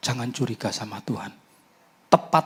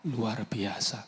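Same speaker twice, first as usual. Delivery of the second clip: hushed whisper of awe; awed whisper; 9 dB quieter, much slower than usual. Retold or imitated. Preacher marvels at the pastor's family, awed whisper. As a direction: breathe the words in wonder.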